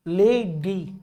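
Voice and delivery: "लेडी" broken into two separate syllables, ले and डी; split into syllables. Shown as a demonstration. Teacher showing students two syllables, "लेडी" split in two. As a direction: say "लेडी" as two beats, ले, then डी. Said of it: "दो syllable हो गए".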